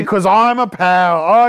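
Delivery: slow, simple-minded goof; dopey character voice. Acted. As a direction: drawl it like a lovable oaf. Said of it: "I was doing a comedic riff".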